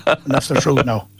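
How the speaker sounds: put-on thick Midlands Irish accent telling a fishing yarn; Mullingar accent. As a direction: spin it as a Mullingar local. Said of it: "mastering the Mullingar accent".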